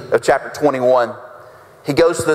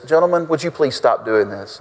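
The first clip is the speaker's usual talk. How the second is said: lower, mock-polite request; mock meek politeness; 4 semitones lower than usual. Preacher mimicking a too-meek Jesus addressing the merchants, politely. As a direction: ask it meekly, pretending to be ever so polite. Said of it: "very politely and meekly says".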